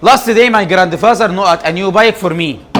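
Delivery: very slow, word by word reading; slow dictation. Shown as a demonstration. Teacher reading an exam sentence to students, slow and deliberate. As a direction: read it out slowly for the class to follow. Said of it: "teacher reads exercise sentence".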